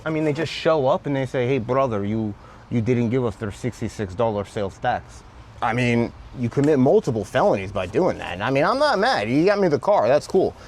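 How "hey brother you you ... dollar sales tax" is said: lightly imitated Eastern European accent. Sellers demanding unpaid sales tax, light Eastern European accent. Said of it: "In this Eastern European accent".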